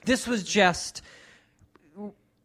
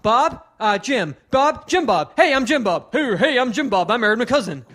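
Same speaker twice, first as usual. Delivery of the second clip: imitating hack comic; 2 semitones higher, 4 dB louder than usual. Comic mimics the warm-up guy mocking a fan, loud and cheesy. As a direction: bark the names back like a hokey emcee.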